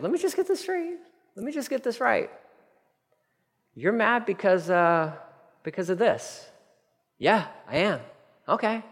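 voicing God. God questioning Jonah softly.

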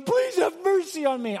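high, pleading beg, voice pushed up; begging. Retold or imitated. Preacher imitating the rich man begging Abraham, high and pleading. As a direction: plead for mercy with a rising, desperate voice. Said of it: "Is that begging?".

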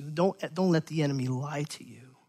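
softly whispered warning. Real, not acted. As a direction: lean in and whisper it. Pastor urging the congregation.

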